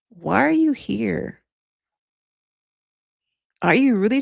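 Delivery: Michelle. Acted. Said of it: "Great Michelle voice".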